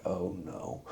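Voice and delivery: mild retold dread, barely voiced; dismayed oh no. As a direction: let it drop away in quiet dismay. Sees sister unconscious after crash.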